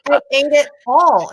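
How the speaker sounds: guilty, mock-crushed confession; lightly voiced remorseful husband; distraught husband. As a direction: voice the husband owning up.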